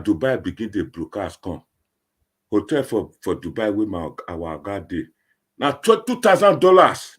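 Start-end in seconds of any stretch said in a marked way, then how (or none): 5.6-7.1 astonished. Real, not acted. Amazed at oga's hotel cost.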